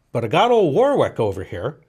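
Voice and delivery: lightly voiced old farmer with swooping pitch. Salesman's stuck car, farmer offers help, lightly voiced old farmer.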